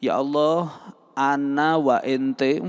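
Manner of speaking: bahasa Arab dipaksakan, pelan dan lucu; mock forced Arabic. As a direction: meniru doa berbahasa Arab yang dipaksakan. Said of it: "Anda maksa dengan bahasa Arab itu lucu". (ejekan doa bahasa Arab yang dipaksakan)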